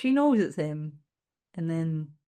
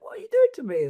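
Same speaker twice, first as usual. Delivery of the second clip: stressed plea; 11 semitones higher, faster than usual. Retold or imitated. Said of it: "She's so stressed now".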